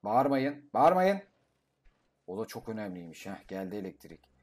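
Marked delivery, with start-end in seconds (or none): 0.0-0.7 stop shouting. Real, not acted. Telling roaring dinosaurs to stop. 0.7-1.2 higher, louder yell of stop shouting; louder scolding shout. Real, not acted. Telling roaring dinosaurs to stop.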